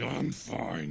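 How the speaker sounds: a hint of a Russian guard; weak Russian accent. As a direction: give it a bare try at Russian. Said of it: "it's gonna be bad if I try to do it".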